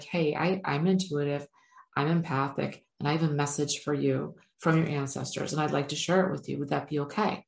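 gentle and easygoing, no rush; calm polite approach. Shown as a demonstration. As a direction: offer the message calmly to a stranger. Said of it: "and I'm like".

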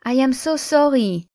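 lightly acted tearful apology; mock sobbing apology. A narrator's reading. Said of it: "she sobbed".

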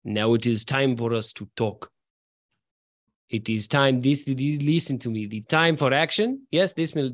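put-on heavy Russian accent, lightly done; a hint of a Russian villain demanding answers; understated Russian brigand accent; thick Russian accent. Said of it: "in a very thick Russian accent says".

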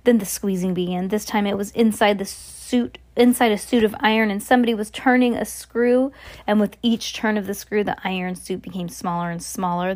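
storyteller reading from a book; story narration. A narrator's reading. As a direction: read the tale aloud with measured drama. Reads a story aloud.

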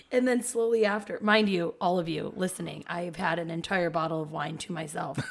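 wheezy, breathy tipsy chatter. Real, not acted. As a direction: talk through a wheezy chest. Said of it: "I don't know why I'm so wheezy".

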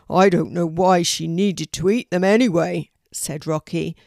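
loud, forceful bird character; grumbling raven. Acted. Rocky the raven grumbles about Poppy, loud put-on voice. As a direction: complain at full voice as a raven.

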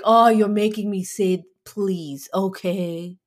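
imitated reluctant please, dragged out at the end; mock being forced to ask, slowing on the please; put-upon, slow grudging agreement; grudging compliance. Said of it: "she says it so".

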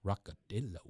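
lightly voiced laid-back Texan star; Matthew McConaughey. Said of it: "I think it'd be like a".

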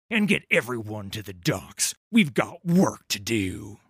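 loud, driving captain's orders; rally the crew like a captain; commanding pirate captain. Acted. Captain ordering his first mate and crew, commanding.

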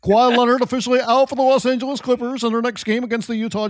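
news anchor voice. Pretend. Mock breaking news report.

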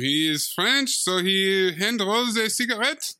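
put-on French accent, savoring it; lightly hammed-up French voice; mock French accent. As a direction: play a cartoonish Frenchman. Mock Frenchman explaining smoking.

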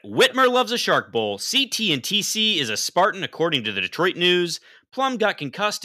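high newsboy headline patter; rapid old-time reporter. Acted. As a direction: rattle off headlines like a paperboy.

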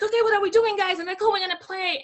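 put-on rally the children for recess games; upbeat retold playground voice; playful teacher. Retells joining kids at play.

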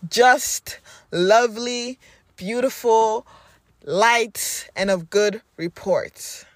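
slow earnest declarations; affirmation prayer. Acted. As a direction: pray each phrase like a vow.

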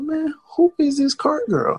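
high, exasperated question; annoyed. Retold or imitated. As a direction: act fed up with the noisy cart. Irritated at the cart again.

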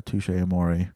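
band name said slowly, amore as "a-MOR-ee"; the band name tried out hesitantly, slowly; careful pronunciation. Shown as a demonstration. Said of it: "let me know how you say it".

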